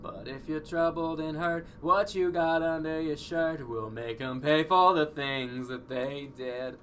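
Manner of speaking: slow, high, menacing read; dramatic villain voice. Acted. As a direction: draw it out like a sinister tempter. Reading game dialogue in voice.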